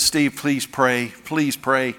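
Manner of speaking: slow, soft tearful begging; quiet, slowed imitation of a crying bride; teary plea. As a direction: plead gently through tears. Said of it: "and she's crying".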